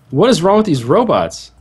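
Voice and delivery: high, loud exasperation; real frustration, pitch jumping up; exasperated outburst. Real, not acted. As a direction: burst out in disbelief at the robots. Exasperated outburst at game's robots.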